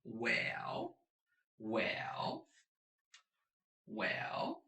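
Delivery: each "well" drawn out, dipping then rising; hesitating well. Shown as a demonstration. Teacher shows third tone with "well", a long hesitant dip and rise. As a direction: say "well" slowly as if thinking it over. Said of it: "Let me think about it".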